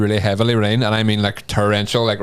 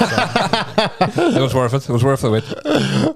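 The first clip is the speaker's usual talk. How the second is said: slow drawn-out words; 3 semitones higher, much slower than usual. Real, not acted. Drawn-out laughing answer.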